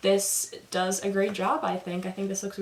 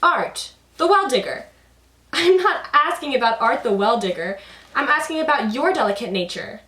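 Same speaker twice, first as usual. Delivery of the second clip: higher, louder, insistent with French; exasperated Hasavat; 6 semitones higher, 7 dB louder than usual. Acted. Hasavat repeating his question to confused Karagos, louder and higher. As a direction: press the question in French, getting impatient. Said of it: "throwing in little French phrases".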